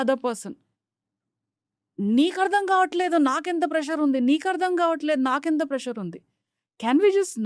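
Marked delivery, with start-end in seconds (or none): 2.0-6.2 quick, higher, exasperated outburst; frustrated complaint. Retold or imitated. Stressed partner snapping at the other, fast and exasperated. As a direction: rattle it off like a fed-up spouse.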